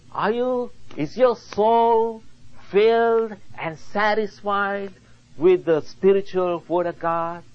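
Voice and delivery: preaching appeal. Real, not acted. Preacher asking believers if their souls are satisfied, earnest exhortation. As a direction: press each question on the congregation from the pulpit.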